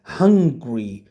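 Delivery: "hungry" in two syllables, HUNG-gree; contrasting pronunciation. Shown as a demonstration. Teacher contrasts it with the country's name, "hungry" in two syllables. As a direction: run g straight into r in "hungry", no vowel between. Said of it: "A big difference".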